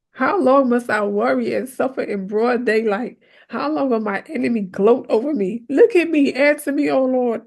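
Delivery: dramatic David. Acted. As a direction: cry out to the Lord dramatically. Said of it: "he was so dramatic about this".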